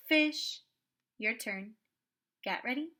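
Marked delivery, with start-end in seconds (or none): 0.1-0.6 sounded out. Shown as a demonstration. Teacher modelling for the student to copy, "Fish" sounded out. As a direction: hold the opening f long before finishing "Fish".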